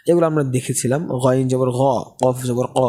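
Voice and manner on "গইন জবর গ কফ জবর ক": heavy back "গ" and "ক", vowels towards o; thick vowel. Shown as a demonstration. Teacher recalls heavy letters, "গ" and "ক" with aw. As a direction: round "গ" and "ক" to aw. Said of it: "sound মোটা হওয়ার কারণে".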